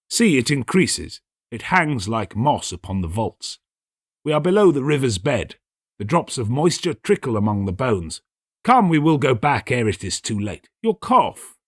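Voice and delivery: a scheming host playing the worried friend; Montresor, urging. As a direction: coax the sick friend to turn back.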